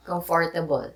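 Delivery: Filipino-accented comfortable. Shown as a demonstration. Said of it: "I will say the Filipino accent for it".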